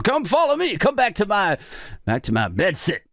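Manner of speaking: come-on in a put-on American accent. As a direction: lay on an American accent to seduce. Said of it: "I need an American accent for that".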